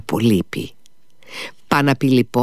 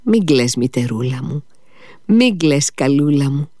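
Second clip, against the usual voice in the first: tender plea; 3 semitones higher than usual. Acted. Dying son begs his crying mother, pleading higher. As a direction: comfort her, rising each time.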